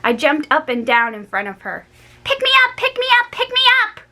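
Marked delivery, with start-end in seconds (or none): 2.2-4.0 high, loud repeated demand; begging. A narrator's reading. Girl jumping in front of Grandma, begging to be picked up. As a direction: bounce and plead.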